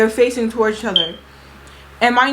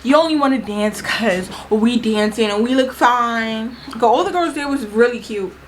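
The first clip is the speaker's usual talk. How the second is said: breathless and winded; catching her breath between words; 3 dB quieter than usual. Real, not acted. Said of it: "I don't know why I'm out of breath".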